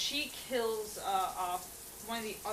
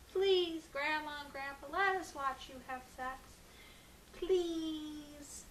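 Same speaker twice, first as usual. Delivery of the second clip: put-on high, pleading child voice, drawn out; begging little kids; 8 semitones higher, slower than usual. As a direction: whine like kids begging for a cookie. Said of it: "like little kids asking for a cookie".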